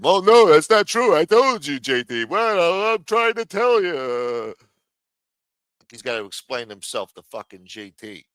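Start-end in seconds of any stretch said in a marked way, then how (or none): 0.0-4.5 mock defensive Silo. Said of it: "he's gotta answer to him".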